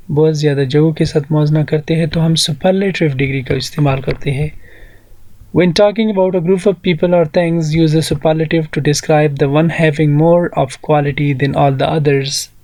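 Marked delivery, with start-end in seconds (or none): 5.6-12.5 slow, careful reading of the rule; slow textbook reading. Shown as a demonstration. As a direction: read each word slowly for the class. Reads textbook rule slowly. (धीमी, साफ़ पढ़ाई)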